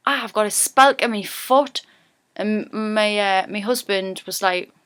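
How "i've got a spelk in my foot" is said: lively Geordie, pitched up on the retold line; Geordie word demo. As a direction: say it in broad Geordie, lifting at SPELK. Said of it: "spelk is a Geordie word".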